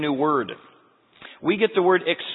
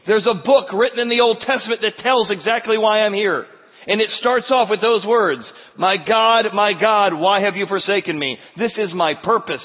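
raised, commanding voice; Jesus crying out; 5 semitones higher, 4 dB louder than usual. Acted. Jesus looking to the people from the cross, crying out. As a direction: proclaim it forcefully to a crowd. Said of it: "crying out in a loud voice".

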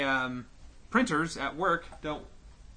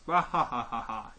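mock evil laugh; 4 semitones lower than usual. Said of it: "Brainy's Nook of Darkness".

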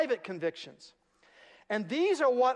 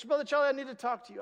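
eager, hurried; 4 semitones higher, faster than usual. Retold or imitated. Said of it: "she goes".

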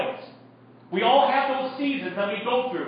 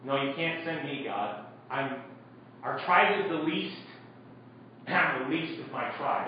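meek protest; 6 semitones lower, 7 dB quieter than usual. Acted. Gideon protesting God's call.

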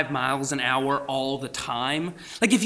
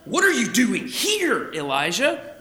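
questioning take; 9 semitones higher, slower than usual. Shown as a demonstration. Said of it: "How did the Lord say this?".

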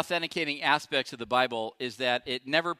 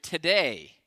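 solemn Jesus; 2 semitones lower, slower than usual. Retold or imitated. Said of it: "Jesus answered".

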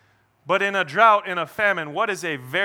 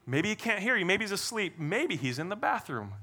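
softer, teasing taunt; sly trash talk, dropping in volume; 3 semitones higher, 6 dB quieter than usual. Acted. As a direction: needle them with mock-helpful guesses. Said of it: "he's trash talking them".

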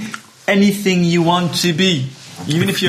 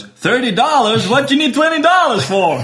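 high, incredulous Jewish father; outraged Jewish dad; 9 semitones higher, 3 dB louder than usual. Acted. Dad answering son's request to borrow money, high-pitched outrage. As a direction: haggle in high-pitched disbelief. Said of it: "goes to his totally Jewish dad".

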